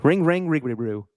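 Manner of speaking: garbled Cockney gibberish; mock Cockney nonsense. Host imitating Butcher saying nonsense, mock Cockney babble. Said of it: "he's just saying nonsense".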